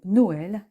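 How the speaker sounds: "Noël" in two syllables, no-èl; separated vowels. Shown as a demonstration. Teacher gives tréma example, "Noël" as slow no-èl. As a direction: keep o and è apart in "Noël". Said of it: "les deux voyelles sont bien séparées".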